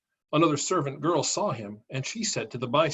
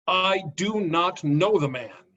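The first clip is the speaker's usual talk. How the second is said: slow, louder, heated oath; sworn denial; 4 semitones higher, 4 dB louder, slower than usual. Acted. Peter cursing at the bystanders, slow and louder. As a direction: hammer out the denial slowly. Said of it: "he began to curse, and he swore an oath".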